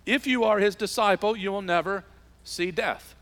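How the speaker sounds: rising emphatic climax. Acted. Preacher builds to climax.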